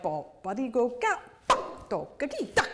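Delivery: short plucked syllables with sudden leaps; vocalized pizzicato. Shown as a demonstration. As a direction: imitate leaping pizzicato notes with your voice. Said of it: "you need the pizzicato".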